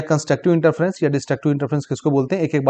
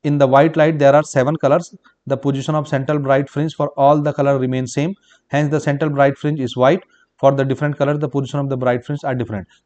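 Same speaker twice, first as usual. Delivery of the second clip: slow, word-by-word dictation of the answer; measured note-taking pace; much slower than usual. Shown as a demonstration. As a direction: dictate it slowly so students can write. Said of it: "answer है yes".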